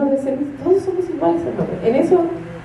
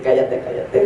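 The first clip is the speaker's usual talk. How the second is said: inner whisper; 11 semitones lower than usual. Retold or imitated. Silently telling herself to hush.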